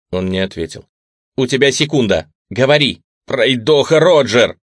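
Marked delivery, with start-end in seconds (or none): 1.4-3.0 commanding shout. A narrator's reading. Reel demanding answer at gunpoint. 3.3-4.6 blurted shout, louder and slow. A narrator's reading. Captive man blurting the code name at gunpoint, desperate shout. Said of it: "выкрикнул он".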